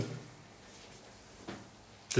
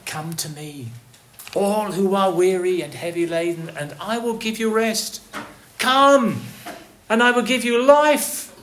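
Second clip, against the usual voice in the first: shepherd's call; 2 semitones higher than usual. Acted. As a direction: start gentle, then call out Come. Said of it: "what is he saying?".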